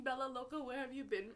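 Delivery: a toned-down echo of the shout; mild retold scream. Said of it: "I was screaming".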